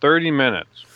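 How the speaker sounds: talking while chewing; mouth full. Real, not acted. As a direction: speak around a mouthful of food. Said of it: "chewing into your microphone".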